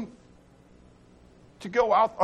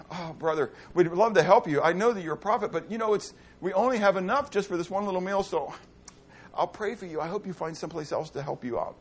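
polite brush-off; 3 semitones lower, 4 dB quieter than usual. Acted. Preacher voices polite refusing householder.

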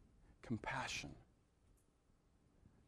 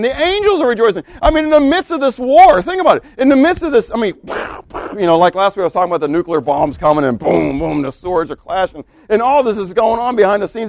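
high, loud, jubilant preaching; preacher exulting over heaven's victory; triumphant preaching; 8 semitones higher, 7 dB louder than usual. Acted. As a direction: lift them up with the victory.

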